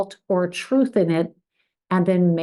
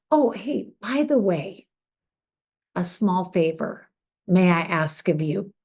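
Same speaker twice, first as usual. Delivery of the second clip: casual soft ask. Shown as a demonstration. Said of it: "So it's good to say".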